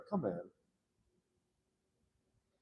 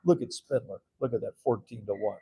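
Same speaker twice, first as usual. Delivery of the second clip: mocking council members; 6 dB louder than usual. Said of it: "they'd be like".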